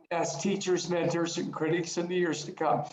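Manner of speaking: real emotion catching in the voice; fighting back tears while rereading the quote; choked up. Real, not acted. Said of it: "I get emotional over this quote".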